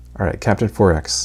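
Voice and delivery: ordinary talk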